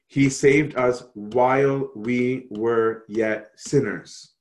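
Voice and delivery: slow, word-by-word recital; deliberate, spaced-out quotation for emphasis; emphatic scripture quote. Retold or imitated. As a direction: weigh every word of the verse slowly.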